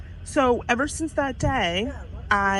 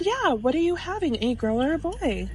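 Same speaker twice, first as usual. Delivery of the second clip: retold question; 5 semitones higher than usual. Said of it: "tell me exactly what you said to her".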